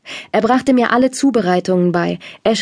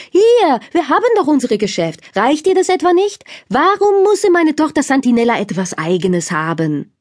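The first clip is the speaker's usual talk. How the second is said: angry father; 6 semitones higher than usual. Acted. Angry father voiced in story.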